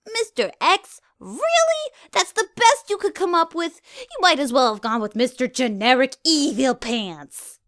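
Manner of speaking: very high, loud mocking disbelief; Ditzy mocks the villain's name; incredulous. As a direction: scoff at the silly name. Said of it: "Ditzy said incredulously".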